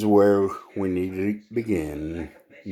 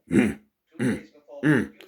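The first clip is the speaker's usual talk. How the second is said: short imitated "mm" grunts in march step; 2 semitones higher than usual. Comic telling of a lion marching through the jungle, rhythmic grunts. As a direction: grunt along like a strutting lion.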